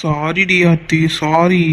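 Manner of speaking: slow, drawn-out sorry; tender apology. Acted. Rescuer apologises to upset girlfriend. (வருத்தத்தோடு மெதுவாக மன்னிப்பு கேட்டு)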